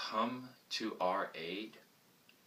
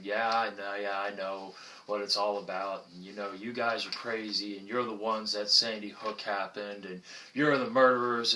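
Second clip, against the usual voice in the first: louder mock rant building to a yell; hostile heckler; 5 dB louder than usual. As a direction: rant like an angry passerby, then trail into blah blah. Acted hostile passerby ranting.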